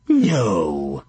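low, blunt witch; a curt old hag. Acted. Rosemary refuses flatly.

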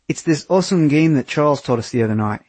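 a hint of a broad Australian voice; Australian accent. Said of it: "he said in his thick Australian accent".

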